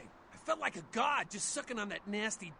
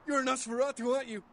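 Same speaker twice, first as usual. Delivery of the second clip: excited; 5 dB louder than usual. Acted. Ghoul excitedly greets a vampire.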